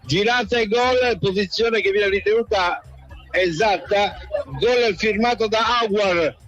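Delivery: excited radio play-by-play; live goal commentary. Acted.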